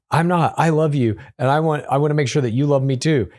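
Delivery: a hint of a clingy partner insisting; mock pleading fiancée. Voicing Annie in recap.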